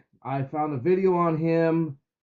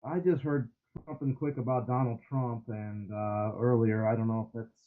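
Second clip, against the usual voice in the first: muffled; 3 dB quieter than usual. Real, not acted. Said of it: "you're muffled and far away from your phone".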